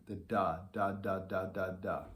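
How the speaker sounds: "da, da" with a light d-tongue, evenly spaced; tenuto tonguing. Shown as a demonstration. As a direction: say "da" over and over, each note separate. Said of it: "the most common is the tenuto tonguing".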